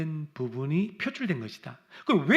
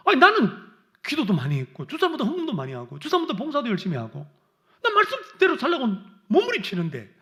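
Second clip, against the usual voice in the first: the resentful believer whining at God, fast and louder; whiny complaint; 3 semitones higher, 3 dB louder than usual. Retold or imitated. Preacher voicing a resentful believer's complaint, indignant whine. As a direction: protest like a wronged worker.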